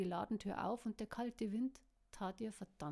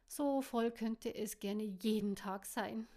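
swooning; 5 dB louder, slower than usual. Acted. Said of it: "schmachtete sie".

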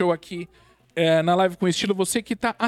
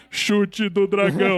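slow, solemn move-name callout; dramatic anime narration; slower than usual. Retold or imitated. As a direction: announce the attack gravely. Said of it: "aí de repente para tudo". (anúncio solene e lento do golpe de anime)

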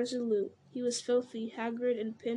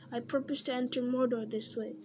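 Gollum mimicking Frodo. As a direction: parrot master's words back. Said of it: "now he says".

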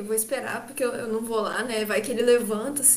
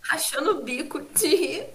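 normal talking voice

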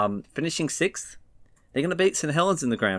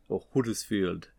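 Huddersfield in a mock northern English accent, a bit quieter; terrible English accent; 2 semitones lower, 3 dB quieter than usual. Shown as a demonstration. Presenter joking through a team name, terrible English accent. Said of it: "That was a terrible accent".

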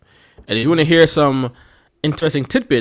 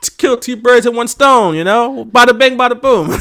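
higher-pitched hammed-up Philadelphia accent, laughing at the start; Philly accent; 10 semitones higher, 4 dB louder than usual. Goofing on a Philly accent for a podcast co-host. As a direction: lay the Philadelphia accent on thick. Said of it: "typical Philadelphia, um, person accent".

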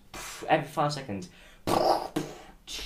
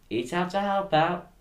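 slow, higher, louder mock advert slogan; 9 semitones higher, 5 dB louder than usual. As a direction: sell it like a cheesy government jingle. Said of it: "I'm hearing rumours of Eat Out to Help Out".

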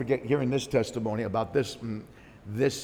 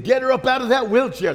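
high, loud commanding cry; commanding shout; 9 semitones higher, 7 dB louder than usual. Retold or imitated. Pastor's wife commanding the ushers, shouting. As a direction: order them to lift her. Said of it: "That's what the pastor's wife said".

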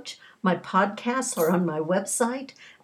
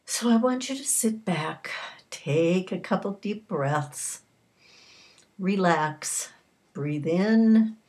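guided visualization. Acted.

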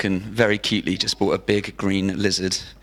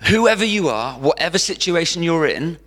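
calling out; 7 semitones higher, 4 dB louder than usual. Real, not acted. Preacher calls out to congregation.

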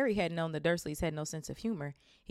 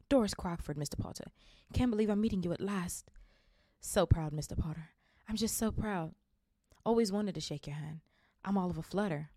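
put-on gushing old woman; 2 semitones higher than usual. Fan gushes meeting Harry.

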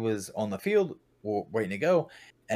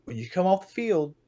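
higher, louder mock yell at a player; retold yelling; 3 semitones higher, 4 dB louder than usual. Camp leader yelling at young player Dylan, loud. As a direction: bark the orders like an angry coach. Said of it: "I literally yelled out".

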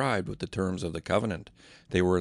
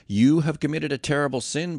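stern rebuke; 6 semitones higher, 5 dB louder than usual. A narrator's reading. Moses rebukes people.

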